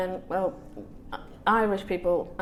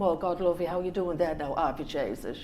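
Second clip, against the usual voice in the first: mock Irish; 3 semitones lower than usual. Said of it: "They come".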